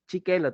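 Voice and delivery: "Chiquelo" as a cutesy lisp of "sí quiero"; imitating baby talk. Teacher imitating partner's baby talk, cutesy. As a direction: babyish "Chiquelo" with ch for s. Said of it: "todavía te dicen".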